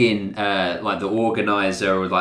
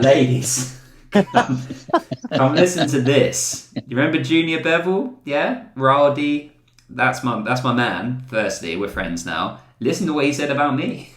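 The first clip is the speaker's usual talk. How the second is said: mock smooth-talking ladies' man; 4 semitones higher than usual. Joking about luring ladies at home, hammed-up charmer. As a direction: play the guy on the prowl bragging. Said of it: "So I'll be like".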